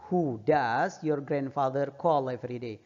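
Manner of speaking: slow, careful reading for learners; teacher slowing down the sentence; slow model reading. Shown as a demonstration. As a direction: read it slowly so students can repeat. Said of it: "teacher reads answer slowly".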